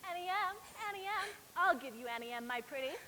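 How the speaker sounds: sneering witch mimicry; mock her cruelly. Witch mocks girl.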